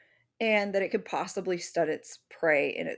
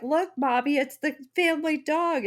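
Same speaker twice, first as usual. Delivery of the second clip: put-on higher, proud little child showing a drawing; little kid voice; 8 semitones higher than usual. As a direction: play a toddler holding up a picture. Small kid shows drawing.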